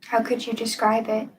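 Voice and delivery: calm guided-meditation delivery, long pauses. Acted. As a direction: guide listeners gently into stillness, leaving room between phrases.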